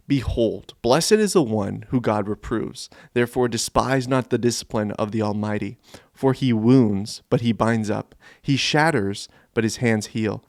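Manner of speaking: measured, declaimed scripture reading; scripture recitation. Acted. Job's friend answering his pain, scripture recitation. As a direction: recite it solemnly with weighted key words.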